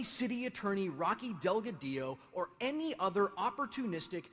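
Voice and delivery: builds to a loud, high outraged shout; angry rant. Real, not acted. Ranting at politicians, building louder.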